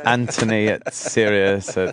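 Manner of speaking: slow read-back. Shown as a demonstration. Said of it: "Please read that back".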